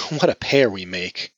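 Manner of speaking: mirthless laugh, then slow words; bitter laugh through tears. Acted. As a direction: laugh without joy, close to crying. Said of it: "laughed through her tears".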